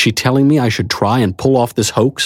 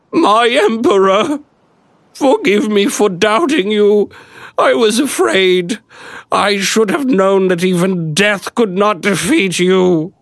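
high, slow, weeping plea; tearful peasant woman; 11 semitones higher, slower than usual. A narrator's reading. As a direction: beg him through tears. Peasant woman weeping at his feet.

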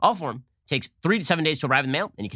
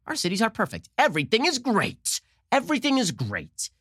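mock cheery denial; 8 semitones higher than usual. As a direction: parody blind optimism. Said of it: "And Democrats like".

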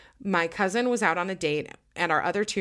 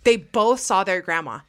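slow, louder, insisting; insistent; 3 semitones higher, 6 dB louder, slower than usual. Real, not acted. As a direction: drive the point home, slowly. Insisting the ghost story is true.

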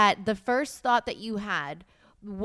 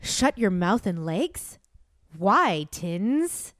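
dramatic reading; 2 semitones lower, much slower than usual. Acted. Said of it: "read it in my own voice".

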